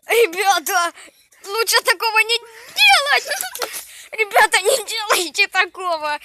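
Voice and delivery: urgent warning. Real, not acted. Warning viewers after fire.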